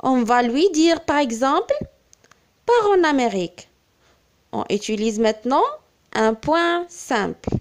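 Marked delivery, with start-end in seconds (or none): 2.7-3.7 gentle advice. Shown as a demonstration. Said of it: "si nous voulons donner un conseil".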